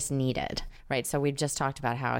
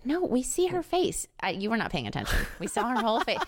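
1 exasperated; 10 semitones higher than usual. Real, not acted. Arguing with co-host.

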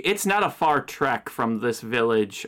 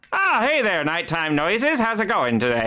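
barber voice; 5 semitones higher than usual. Acted. Barber character greets.

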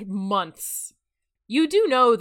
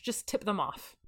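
conspiratorial whisper; 7 dB quieter than usual. Acted. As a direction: lean in and whisper it. Secret tip aside.

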